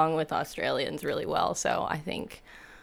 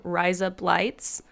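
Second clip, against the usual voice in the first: Aussie accent; slower than usual. Shown as a demonstration. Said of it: "in an Aussie accent".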